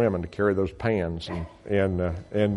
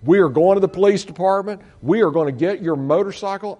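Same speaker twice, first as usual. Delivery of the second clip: raised, higher, determined outburst; upset retelling; 5 semitones higher than usual. Retold or imitated. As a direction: retell it worked up, ready for the police. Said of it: "I was just really upset".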